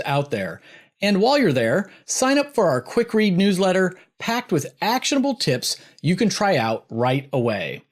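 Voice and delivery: upbeat sponsor read, slowing on the web address; bright podcast ad voice. Acted. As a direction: sell the newsletter like a radio spot. Host reads a sponsor promo.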